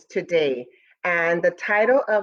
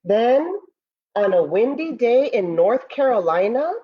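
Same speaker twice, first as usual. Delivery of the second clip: storybook narration. Acted. Teacher reading Moon's First Friends to students, storybook voice. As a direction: read it like a bedtime story for the class. Reads picture book aloud.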